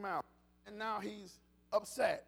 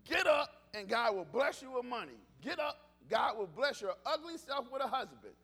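hammed-up prosperity preacher, shouting get up; mock revival shout; 5 dB louder than usual. Preacher mocking what church made of get up, shouted. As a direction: bellow it like a showy church promise.

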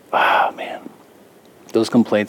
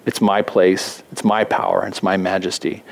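proud king; 4 semitones lower than usual. Retold or imitated. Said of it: "what Nebuchadnezzar is saying".

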